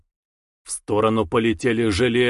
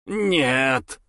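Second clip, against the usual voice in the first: creeping nightmare whisper. Acted. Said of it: "прошипел полудемон".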